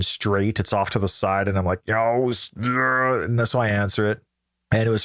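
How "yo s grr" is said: annoyed growl. Retold or imitated. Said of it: "mumbling already".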